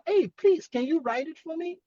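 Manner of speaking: friendly request. Shown as a demonstration. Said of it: "Just don't make it look like, um, you're not happy with her".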